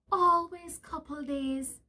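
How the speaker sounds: slow, drawn-out peeved wife. Acted. Wife sulking at husband's delay, slow and peeved. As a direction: grumble it as a fed-up wife. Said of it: "she said, peeved".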